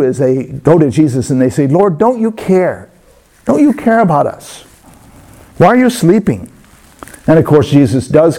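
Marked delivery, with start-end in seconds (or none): 1.7-6.5 pleading cry. Acted. Disciples shake Jesus awake, anxiously pleading. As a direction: implore him to wake and help.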